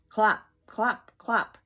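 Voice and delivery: loud horse clops; hooves clopping. Acted. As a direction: clop like hooves. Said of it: "wonderful things Mister Brown can do".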